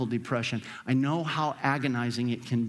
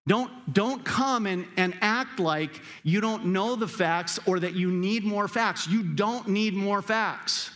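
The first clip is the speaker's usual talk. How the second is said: Jesus scolding his disciples, raised voice; 6 semitones higher than usual. Acted. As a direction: scold them like a frustrated teacher.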